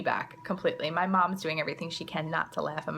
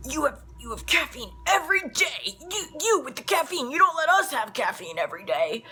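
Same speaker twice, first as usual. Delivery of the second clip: high, indignant kid with a mock-Italian accent; imitated outraged boy, exaggerated Italian accent; thick Italian accent; 9 semitones higher, 4 dB louder than usual. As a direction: rant accusingly in a hammed-up Italian accent. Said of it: "In the thickest Italian accent".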